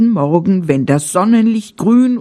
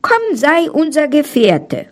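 higher, quick little animal voices; forest animals asking; 7 semitones higher than usual. Acted. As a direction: coax the bear to join them, lightly. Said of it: "Und alle fragten".

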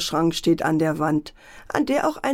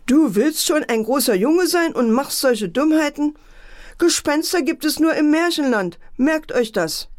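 cross scolding mother; 7 semitones higher than usual. Acted. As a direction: scold the boy firmly as an annoyed mother. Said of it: "Mutter guckte ärgerlich".

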